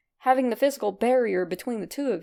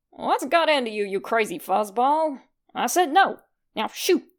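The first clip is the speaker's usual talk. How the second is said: louder, fed-up scold with a sharp "no"; exasperated scolding; 4 dB louder than usual. Acted. Red yelling at the cat to quit pawing, fed up. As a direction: bark at the cat to get lost.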